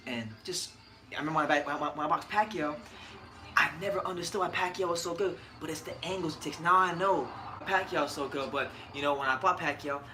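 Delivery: lightly voiced retired boxer reflecting; a hint of a measured, pausing champion; Floyd Mayweather. Host plays boxer praising his career, lightly imitated measured speech. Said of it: "ready when Floyd says".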